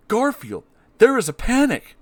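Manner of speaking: high, loud panicky owner; John Arbuckle voice. Acted. John warns Garfield of a panic, high panicky voice. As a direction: squeak it out like a flustered owner. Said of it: "my terrible Garfield impression".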